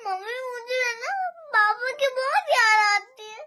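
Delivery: tearful complaint to mother; sobby pleading about papa; crying. Real, not acted. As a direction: talk through real tears. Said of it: "क्यों रो रही है?".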